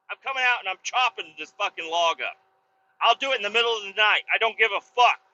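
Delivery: heated, insistent warning; defiant threat. Retold or imitated. Owner vowing midnight chainsawing to neighbor, defiant. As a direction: vow it without backing down.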